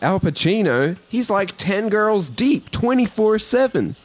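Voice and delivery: high, slow mock Black American accent; put-on Black American voice. Host playing the rapper in a read-through, mock Black American accent. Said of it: "now I'm doing the black voice".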